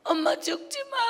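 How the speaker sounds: put-on child pleading. Child begging mother not to die.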